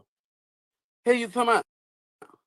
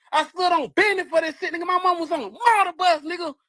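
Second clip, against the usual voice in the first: mad; 5 semitones higher than usual. Real, not acted. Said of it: "Why I'm mad?".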